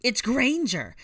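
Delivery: high, loud villainous command; fierce high-pitched yell; shouted order. A narrator's reading. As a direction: sic your allies on her. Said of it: "Bellatrix ordered".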